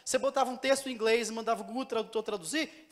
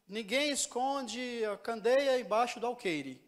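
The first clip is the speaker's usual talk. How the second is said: slow scripture reading; slower than usual. Shown as a demonstration. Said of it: "Aí tem outro que fala".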